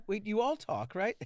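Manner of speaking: high, loud acted disbelief; hammed-up incredulous check; astonished. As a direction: question them in comic amazement. Acting out question to turtles.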